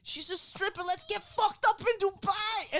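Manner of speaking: high, slow, hammed-up kid bragging; mock party-animal child voice; imitating redheaded child. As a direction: stretch it out like a boasting kid. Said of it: "this nine-year-old redheaded child".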